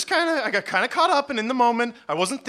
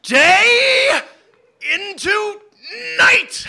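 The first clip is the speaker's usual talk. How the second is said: screaming each word, very high and loud; spaced-out spell scream; yelled incantation; 14 semitones higher, 8 dB louder, much slower than usual. Acted. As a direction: bellow it word by word to force the spell. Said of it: "I said".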